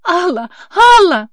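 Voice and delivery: high, loud relieved calling; joyful repeated cry. Acted. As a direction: hug her and cry her name. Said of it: "повторяла Полина".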